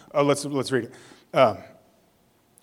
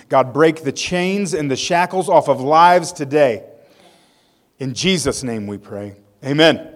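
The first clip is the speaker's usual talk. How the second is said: earnest, measured spoken prayer; sincere petition to God. Real, not acted. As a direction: pray aloud for the congregation, building toward the amen. Leads congregation in prayer.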